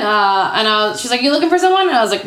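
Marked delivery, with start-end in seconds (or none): 1.2-1.9 put-on high, Southern-accented query. Woman checks on a lone newcomer, Southern accent. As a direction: imitate a Southern woman, pitched way up. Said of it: "she had a Southern accent".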